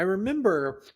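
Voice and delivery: words pushed out around a sneeze; holding back a sneeze. Real, not acted. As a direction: talk while fighting off a sneeze. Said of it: "sorry, I'm trying not to sneeze again".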